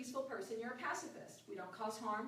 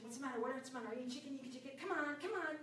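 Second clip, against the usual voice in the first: goading mother; 4 semitones higher, faster than usual. Retold or imitated. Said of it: "she's goading me and pushing me".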